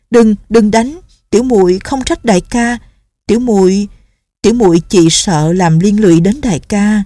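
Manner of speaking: begging him to stop hitting himself; young nun, anxious pleading. Acted. (giọng cô gái cao, hoảng hốt van nài)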